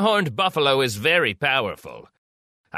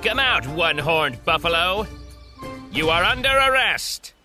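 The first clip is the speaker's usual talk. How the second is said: mild shout; 4 semitones lower than usual. Acted.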